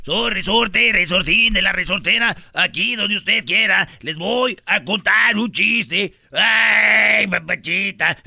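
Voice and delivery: lightly voiced comic character; Resortes character voice. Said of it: "¿Qué onda, Resortes?".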